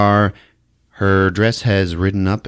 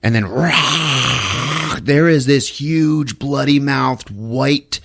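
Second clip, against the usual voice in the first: slow, high, growling horror-trailer build; dramatic buildup; 6 semitones higher, slower than usual. Retold or imitated. Podcaster spooking friends with a mock-dramatic build. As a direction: ham up the monster reveal.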